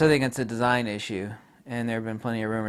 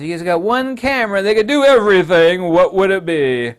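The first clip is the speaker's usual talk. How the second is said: questioning fan; 5 semitones higher, 9 dB louder than usual. Retold or imitated. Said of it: "someone says".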